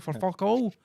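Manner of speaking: high, loud disbelieving shout; incredulous outburst. Acted. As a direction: blurt it out in hammed-up outrage, voice shooting up. Acting outraged gossip about their cancellation.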